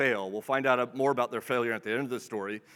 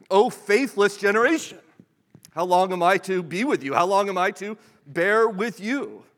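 raised, louder voice of exasperated rebuke; frustrated exasperation; 5 semitones higher, 6 dB louder than usual. Acted. Jesus rebukes the faithless generation after hearing the argument, exasperated. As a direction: cry out in exasperation, drawing out the last plea. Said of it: "it's clear he's not too pleased".

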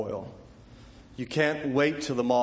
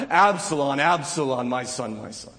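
mournful cry; 5 dB louder than usual. Retold or imitated. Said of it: "he cries out".

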